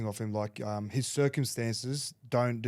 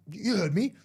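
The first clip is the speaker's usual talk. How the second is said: mock coach command; 9 semitones higher, 5 dB louder than usual. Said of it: "He's like".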